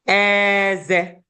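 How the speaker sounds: "Eze" long on an even middle tone; level-tone "teeth" pronunciation. Shown as a demonstration. Teacher contrasting teeth with king, "Eze" long and level. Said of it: "it has different sounds and different meaning".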